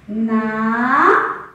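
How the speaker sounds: "Na" held long as a separate syllable; first chunk "Na", drawn out and set apart. Shown as a demonstration. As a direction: stretch out "Na" on its own for a class. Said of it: "separar as sílabas".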